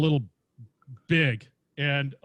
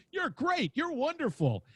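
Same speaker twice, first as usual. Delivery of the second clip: high-pitched gushing flattery; gushing praise; 10 semitones higher than usual. Retold or imitated. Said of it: "I'm just like".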